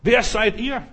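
shrieking demon challenging the sons of Sceva. Retold or imitated. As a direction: taunt them like a mocking spirit. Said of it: "Dann sagt der Dämon".

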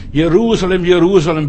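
laut klagender Ruf. Retold or imitated. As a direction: wehklagend hinausrufen. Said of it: "über Jerusalem mal geklagt". (klagend und laut gerufen)

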